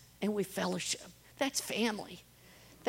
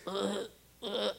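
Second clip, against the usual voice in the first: imitated retching; 2 semitones lower, 9 dB quieter than usual. Volunteer imitating the vomiting woman she found, soft retching. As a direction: imitate someone being sick, softly. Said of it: "She was vomiting".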